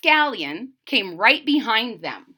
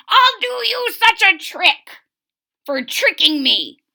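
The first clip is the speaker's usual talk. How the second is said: angry threat; 10 semitones higher, 6 dB louder than usual. Acted. Old man threatens varmint.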